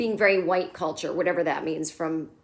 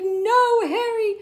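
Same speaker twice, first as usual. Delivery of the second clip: high sharp no; shrill scold; 13 semitones higher, 4 dB louder, slower than usual. Retold or imitated. Charlotte rejecting Harry's book idea, high and sharp. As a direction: snap down his idea.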